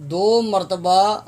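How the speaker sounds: دو مرتبہ said slowly with دو stressed; slow emphasis. Shown as a demonstration. Teacher giving the answer, slow stress on دو. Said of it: "جواب".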